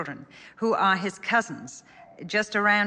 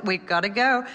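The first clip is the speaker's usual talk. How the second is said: firm parent; 3 semitones higher, 5 dB louder than usual. Retold or imitated. Parent answering child.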